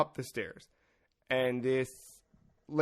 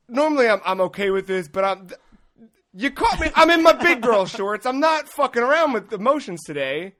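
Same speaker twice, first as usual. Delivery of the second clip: much higher, louder flustered protest; flustered inner rant; 7 semitones higher, 7 dB louder than usual. Retold or imitated. Comic panicking as the lady sobs, high flustered rant. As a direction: sputter like you've been caught off guard.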